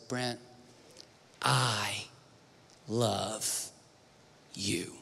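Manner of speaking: soft, slow, low loving words; almost breathe it to him; tender hush. Retold or imitated. Mother speaks lovingly to son.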